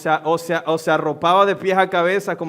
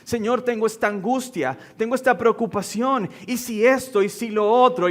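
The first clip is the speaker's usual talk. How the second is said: imitating a worried, pleading prayer, pitched higher; mock-anxious complaint to God, a little higher; 4 semitones higher than usual. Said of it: "nos acercamos a la oración diciendo". (imitando una oración angustiada y suplicante, algo más aguda)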